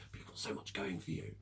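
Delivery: hushed, breathy put-on voice; whispered mock quote. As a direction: whisper it dismissively. Quoting dismissive people.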